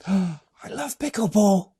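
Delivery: real gasp, then a delighted admission. Real, not acted. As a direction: caught off guard with joy. Host reacts to shared hobby.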